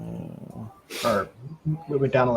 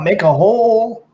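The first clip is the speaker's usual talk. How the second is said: higher, slower, drawn-out call; acted call-out; 6 semitones higher, slower than usual. Player yelling to the crowd in the hallway, acted call. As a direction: call out to clear the way, half yelled. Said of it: "I'll yell out".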